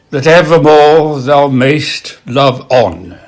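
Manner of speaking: slow, measured verse with pauses between lines; poetry recitation. Acted. Reading a love poem to an audience, measured recitation.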